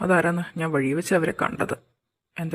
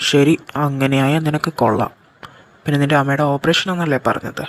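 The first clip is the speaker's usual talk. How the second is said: loud warning; 2 semitones lower, 6 dB louder than usual. Acted. Boss warns suspected informer.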